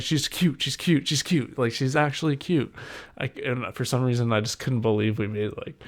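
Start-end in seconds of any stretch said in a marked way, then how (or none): 0.0-2.7 higher, bubbling over with joy; gushing delight. Retold or imitated. Dad gushing to Jen about the baby, higher and joyful. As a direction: repeat it, delighted.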